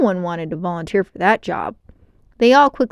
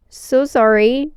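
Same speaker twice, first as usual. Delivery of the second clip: trembling; 5 semitones higher, 5 dB louder, slower than usual. A narrator's reading. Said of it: "his voice trembling".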